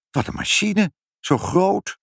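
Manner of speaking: high-pitched marvelling; amazed exclamation. A narrator's reading. Mother sees the huge machine, amazed exclamation.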